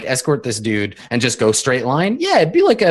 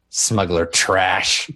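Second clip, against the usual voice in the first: very slow, drawn-out disdain; contemptuous; 4 semitones lower, much slower than usual. Acted. Minister dismissing a smuggler to the droid, contemptuous. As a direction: lower and weighted, each word stretched with scorn.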